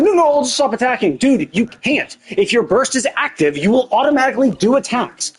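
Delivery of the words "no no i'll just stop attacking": laughing mock of a careless teammate; mock whiny teammate, half laughing; mocking whiner. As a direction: sneer it out like a clueless player. Mocking a selfish co-op player.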